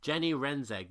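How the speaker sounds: usual speaking voice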